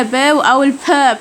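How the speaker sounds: البا said slowly with a strong puff of air; با breathed out hard like Korean ㅍ; aspirated p with air. Shown as a demonstration. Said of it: "با اللي فيها هوا".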